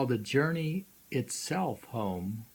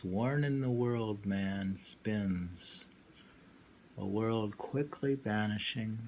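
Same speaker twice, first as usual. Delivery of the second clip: poem reading; slower than usual. Shown as a demonstration. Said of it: "Can you read that poem again?".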